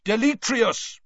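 sharp, high spell command; shouting Mister Diggory. A narrator's reading. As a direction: shout out the incantation. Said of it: "Mister Diggory shouted".

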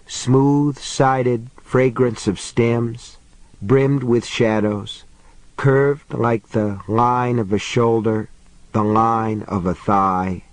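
slow, measured verse reading with pauses; poetry recital. A narrator's reading. Mary's poem read to an audience, in slow recital. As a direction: recite it line by line, unhurried.

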